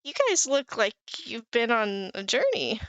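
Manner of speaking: lightly voiced friendly bard; goofy bard. Goofy bard greeting adventurers, lightly put-on friendly voice. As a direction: chat up the travellers as a curious performer.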